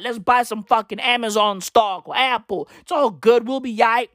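lightly imitated rapper, talking on and on; mock hustler pep talk. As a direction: rattle off big plans as a tough-guy rapper. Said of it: "when a rapper's boyfriend, another rapper, came out".

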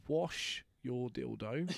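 slow, laughing through the words; can't hold back the laugh; telling friends the punchline, laughing. Real, not acted.

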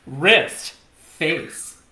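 posed cue words with gaps between; name each pose as its own beat; watch-modeling demo. Shown as a demonstration. Redoing the watch pose for co-host, modeling demo. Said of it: "This is how you model a watch".

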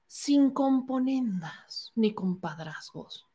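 slow, sarcastic reading of the phrase; mocking quote. Shown as a demonstration. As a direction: drag out each word with scorn. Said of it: "¿de dónde sacan?".

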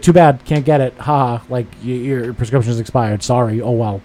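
mocking imitation of smug dismissal. Pharmacist gloating over an expired prescription, imitated smugness. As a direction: punch the opening, then toss off the rest smugly. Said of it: "Like, that smug".

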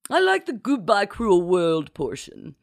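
high, emphatic grande dame; approving duchess. A narrator's reading. Duchess approves the note's wording, grandly. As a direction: start high and loud, then settle.

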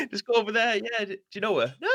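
high, quick airy voice; high mock voice. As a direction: toss it off lightly and fast. Quoting staff exchange.

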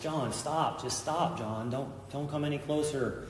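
calling out a plea to stop; pleading. Retold or imitated. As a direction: beg him to stop. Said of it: "I'm pleading with John".

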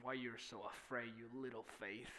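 low, quiet, lightly acted question; understated, hushed reproach; mild soft rebuke. Acts Jesus addressing frightened disciples.

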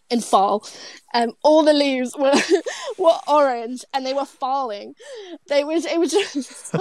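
lightly put-on American accent; playful attempt at American vowels. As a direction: try out an American accent, half-joking. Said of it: "Is that your American accent?".

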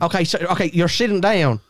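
put-on Texan small talk; mock Texan; Texan accent. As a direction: carry on the scene as a Texan. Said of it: "two Texans".

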